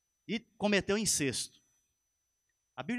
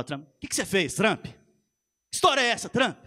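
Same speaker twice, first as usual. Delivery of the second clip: mock rude scolding of the president, rising louder; half-joking indignant demand to the president; preacher mocking a subject talking down to the president; disrespectful address; 3 dB louder than usual. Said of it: "Você não fala assim com o presidente".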